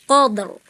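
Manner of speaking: QADR with a heavy final r; thick ro. Shown as a demonstration. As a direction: round out the r of QADR. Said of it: "tebelin ro-nya".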